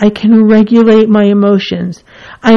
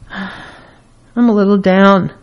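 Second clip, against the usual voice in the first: a little down; slower than usual. Shown as a demonstration. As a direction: sigh first, then drag it out, mildly dejected. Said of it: "It's a spectrum of intensity".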